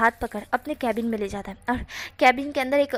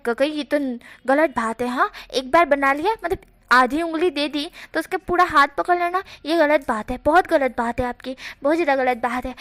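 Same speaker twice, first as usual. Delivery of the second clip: louder, playful grumbling protest; mock indignant complaint; 3 semitones higher, 4 dB louder than usual. The speaker protests to Jan in louder mock indignation. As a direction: scold him in pretend outrage, louder.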